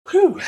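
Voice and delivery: a long breath out to calm down; a real calming whew after crying; steadying exhale. Real, not acted. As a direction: blow out and reset. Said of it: "Let me just take a quick breath".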